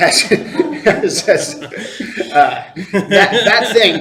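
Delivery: high, loud stammer, laughing through a stumble.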